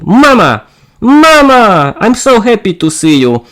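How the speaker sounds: high excited calls of Mama; excited daughter's greeting; joyful calling out. Acted. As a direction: run to mother, overjoyed. Daughter greets mother at airport.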